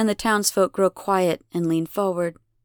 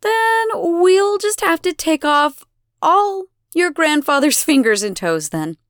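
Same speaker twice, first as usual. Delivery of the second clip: mock-regretful threat; 8 semitones higher, 6 dB louder than usual. A narrator's reading. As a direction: stretch the threat out theatrically. Goddess threatens grandfather, feigning helplessness.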